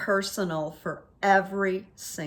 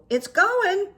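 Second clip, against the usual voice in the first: sardonic reply; 12 semitones higher, 5 dB louder than usual. Retold or imitated. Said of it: "So I go".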